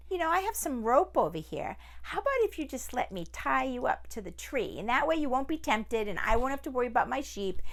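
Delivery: lightly voiced scheming man; the man talks the tiger into it; crafty man. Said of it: "And the man said".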